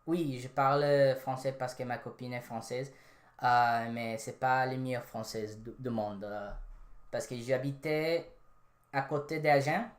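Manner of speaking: fluent French, own voice; speaking French. Shown as a demonstration. Showing chat he speaks French. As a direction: switch into conversational French. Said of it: "I speak actually three languages".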